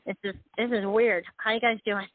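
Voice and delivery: talking through a handheld phone; phone speaker. Real, not acted. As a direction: voice over a phone line. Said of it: "I have to hold the phone in my ear".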